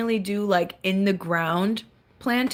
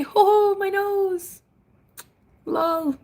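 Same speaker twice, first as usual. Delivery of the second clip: laughing hoot; 11 semitones higher, slower than usual. Real, not acted. Laughing at a comment.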